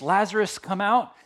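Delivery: calling Lazarus out of the tomb, loud; a strong loud summons; Jesus calling loudly to Lazarus. Acted. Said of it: "called out in a loud voice".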